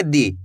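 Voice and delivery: दी with a short, barely stretched i; short vowel. Shown as a demonstration. Teacher showing how far to stretch the vowel, short दी. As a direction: say दी without drawing out the vowel. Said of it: "इतना ही खींच के पढ़ेंगे".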